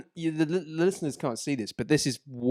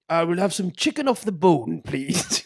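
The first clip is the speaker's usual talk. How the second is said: put-on higher, louder Welsh accent; Welsh bloke; 5 semitones higher, 5 dB louder, slower than usual. Welsh kebab man offering chicken, imitated Welsh accent. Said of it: "a Welsh bloke".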